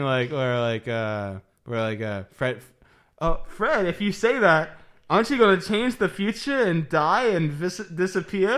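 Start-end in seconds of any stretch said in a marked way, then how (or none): 3.2-8.6 high, loud 1940s radio host; old-timey radio announcer. Retold or imitated. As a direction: ask it like a forties broadcaster. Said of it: "old-timey radio voice".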